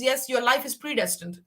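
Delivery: laughing. Retold or imitated. Quoting the scholar, laughing.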